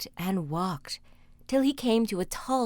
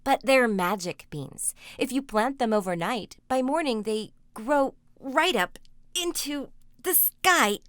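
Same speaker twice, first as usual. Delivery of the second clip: put-on a boy insisting, louder on sky; pleading boy; 3 semitones higher, 5 dB louder than usual. Jack insisting to his angry mother, pleading. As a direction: plead that the beans are magic, building.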